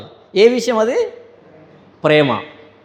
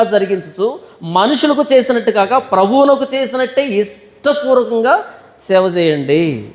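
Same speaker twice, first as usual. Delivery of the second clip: scripture reading; 3 semitones higher, slower than usual. Acted. Reads scripture verse aloud.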